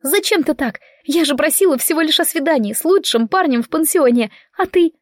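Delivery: high, indignant reproach; a teen girl reproaching her father; upset outburst. A narrator's reading. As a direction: complain up high and hurt. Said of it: "Николетта взорвалась".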